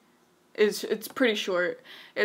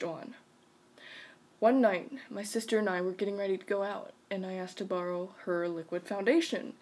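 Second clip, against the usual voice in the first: measured, even read-aloud voice; story narration; 3 dB louder than usual. A narrator's reading. Reading a creepy bedroom story to a listener, story narration. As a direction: read it out evenly, pausing between phrases.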